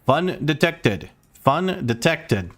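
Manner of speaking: slow, level robotic announcement; slow robotic alarm announcement. Retold or imitated. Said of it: "robotic voice on the loudspeaker".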